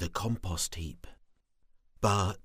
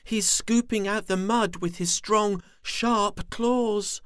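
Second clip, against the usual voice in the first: high, louder little worm; small worm voice; 12 semitones higher, 5 dB louder than usual. Acted. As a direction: explain like a big sister worm. Sister worm explains.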